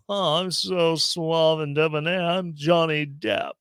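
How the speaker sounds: slow, smug fake British accent. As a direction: purr it like a suave British film star. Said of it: "In my fake British accent".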